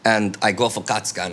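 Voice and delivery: broken-English Hungarian accent; Budapest accent. Shown as a demonstration. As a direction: narrate in a put-on Budapest accent. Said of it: "tell the rest of the story in this accent".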